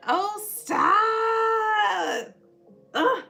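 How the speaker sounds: high, loud, drawn-out squeal; excited shriek. Real, not acted. Reacting to a request for a Puerto Rican voice, excited shriek. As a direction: stretch it out in delighted disbelief.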